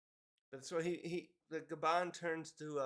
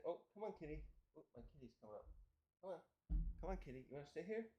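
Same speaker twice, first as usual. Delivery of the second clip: coaxing the cat; 9 dB quieter, much faster than usual. Real, not acted.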